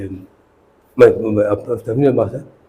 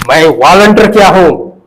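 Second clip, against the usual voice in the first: retold firm declaration; 5 semitones higher, 6 dB louder than usual. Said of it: "तो शकील ने कहा".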